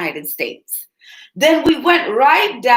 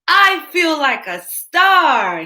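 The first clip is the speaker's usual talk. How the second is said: a Pete voice, a touch higher and slower; proud little cat; 4 semitones higher, 4 dB louder, slower than usual. Acted. Pete the cat, proud in the paw prints, lightly voiced. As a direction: savour being a star, lightly voiced. Pete quoted in read-aloud story.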